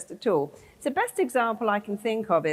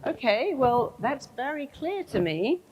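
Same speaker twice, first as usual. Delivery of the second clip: brain's voice, surprised; 5 semitones higher than usual. Acted. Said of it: "then your brain goes".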